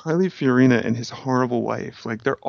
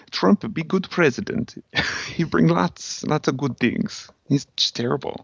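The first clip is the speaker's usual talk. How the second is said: put-on Eastern European accent; 4 semitones higher than usual. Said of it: "she's so Eastern European".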